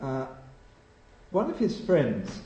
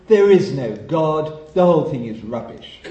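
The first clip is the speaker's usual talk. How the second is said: mock atheist proclamation; 8 dB louder than usual. Retelling atheist leader's speech to crowd.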